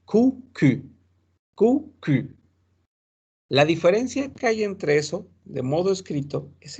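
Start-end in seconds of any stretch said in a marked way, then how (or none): 0.1-2.4 Q said twice, first as ou then as French u; contrast ou and u. Shown as a demonstration. Teacher contrasting two French vowels for students, slow. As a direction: set the two vowels side by side, slowly. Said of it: "Cambia el sonido".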